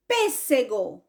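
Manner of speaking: "pêssego" with the weight on PÊS; "pêssego" as one word, PÊS leading; stress on first syllable. Shown as a demonstration. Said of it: "É o P".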